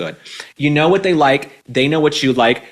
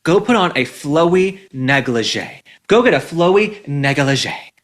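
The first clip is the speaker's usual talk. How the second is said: slow sultry advice; slower than usual. Shown as a demonstration. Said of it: "So my advice to you".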